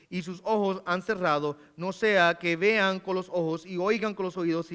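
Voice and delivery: a steady, solemn Bible reading; scripture reading. Acted. Preacher reading Isaiah aloud to the congregation, solemnly. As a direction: read the prophet's words with gravity.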